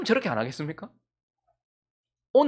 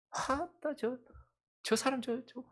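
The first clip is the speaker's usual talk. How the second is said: hushed, high tut-tutting; acted griping about someone, kept soft; mock grumbling; 5 semitones higher, 12 dB quieter, much slower than usual. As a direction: mutter a mock complaint under your breath. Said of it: "하나님 막 원망하는 거예요".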